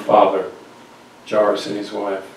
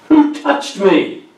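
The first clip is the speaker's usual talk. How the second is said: slow repeated question; 7 semitones higher, 4 dB louder, much slower than usual. Acted.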